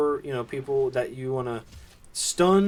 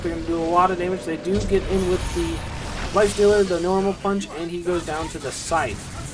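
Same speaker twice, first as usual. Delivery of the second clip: live play-by-play; 4 semitones higher, 5 dB louder than usual. Real, not acted. Live play-by-play of team fight.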